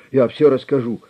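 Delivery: loud, high desperate plea; panicked blurt. A narrator's reading. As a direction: beg to be heard. Terrified prisoner blurts. (в панике, громко)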